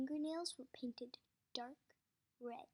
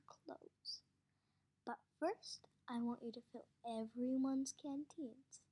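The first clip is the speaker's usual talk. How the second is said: the warden. Acted. Warden character voice.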